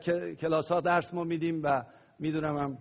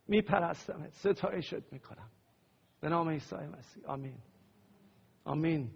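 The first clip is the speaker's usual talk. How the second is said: prayer; 3 semitones higher than usual. Acted. Leads congregation in prayer.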